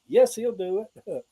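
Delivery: high answering call; church response. Retold or imitated. A churchgoer answers the call, high and sure. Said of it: "Somebody like".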